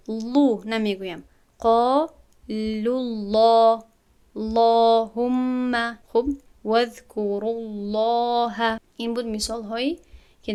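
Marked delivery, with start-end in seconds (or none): 1.6-6.0 قالوا الله with a full, heavy lam, drawn out in recitation; heavy lam in Allah. Shown as a demonstration. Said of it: "لام لفظ جلال پر خوانده می شود". 6.6-8.8 قالوا الله with a full, heavy lam, drawn out in recitation; heavy lam in Allah. Shown as a demonstration. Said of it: "لام لفظ جلال پر خوانده می شود".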